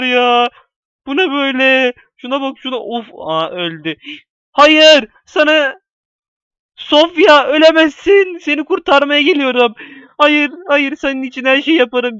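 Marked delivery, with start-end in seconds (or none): 4.5-12.2 hammed-up high tragic cry; melodramatic hero. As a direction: overact a dying-lover scene. Mock rescuing "Sofya.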